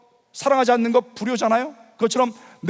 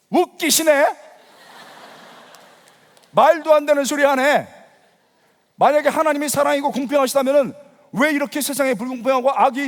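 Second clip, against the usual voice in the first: raised, indignant challenge easing off; retold angry scoffing; 4 semitones higher than usual. Unbeliever's inner retort to the gospel message, angry. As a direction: argue back at the sermon, mock-outraged. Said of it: "화가 더 나는 거죠".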